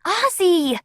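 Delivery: high alarmed cry; screaming a name. A narrator's reading. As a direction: call out in fear for him. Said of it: "Emily screamed".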